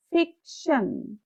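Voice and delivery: ফিকশন slow, ফিক high and শন dropped; stressed first syllable. Shown as a demonstration. Teacher reading capital-letter syllables with stress, ফিক stressed. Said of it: "সেগুলো আমরা একটু stress সহকারে".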